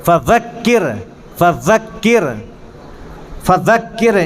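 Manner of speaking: "فذکر" as "fa-dhakkir", a soft voiced th; correct dhāl. Shown as a demonstration. Teacher drills students after the wrong take, "فذکر" with a careful dhāl. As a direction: drill "فذکر" with tongue tip out, pausing between repeats. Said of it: "زے سے نہیں ہے".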